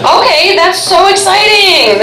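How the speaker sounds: high, drawn-out enthusiasm; mock gushing. Comedian reacting to an audience member's job, mock gushing. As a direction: overplay being thrilled.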